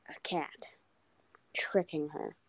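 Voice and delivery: hushed, breathy story reveal; spooky whisper. Pretend. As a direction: whisper it like a secret.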